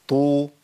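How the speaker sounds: "طو" with a heavy ط and held "oo"; emphatic ط with damma. Shown as a demonstration. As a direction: hold "طو" steady with a strong T. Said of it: "الطاء المتحركة بضم". ("طو" بطاء مفخمة مضمومة)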